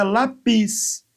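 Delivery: "lápis" mis-stressed as la-PÍS, with a drawn-out final syllable; stress on last syllable. Shown as a demonstration. Teacher showing a hypothetical oxytone, "lápis" stressed la-PÍS. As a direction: put the weight on the PIS of "lápis". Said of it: "Se fosse a última, seria".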